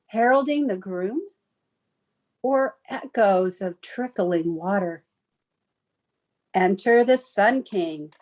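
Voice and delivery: measured, lilting verse recital; poem reading. Acted. Poet reads her winter wedding poem to an audience, lilting recital. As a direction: read it as verse, pausing at each line end.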